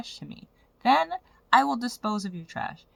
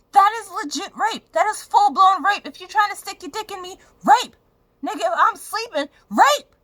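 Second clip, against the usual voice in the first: furious yelling; 11 semitones higher, 7 dB louder than usual. Real, not acted. Furious about ex's assault.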